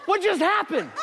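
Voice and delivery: high, baffled question; dumbfounded new father; bewildered. Retold or imitated. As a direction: ask it in stunned disbelief. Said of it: "I'm like".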